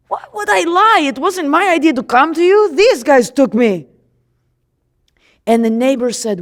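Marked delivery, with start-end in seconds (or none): 0.1-3.9 high, incredulous denial; you can't believe they called you a liar; indignant protest. Acted. Healed man protesting to the Pharisees, indignant.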